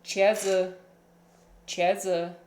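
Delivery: "Chiazi" said like "CHEH-zuh"; "Chiazi" as "cheh-zuh", first syllable stressed; Mandarin word for eggplant. Shown as a demonstration. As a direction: put a short "uh" ending on "Chiazi", two syllables. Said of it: "in China, they say".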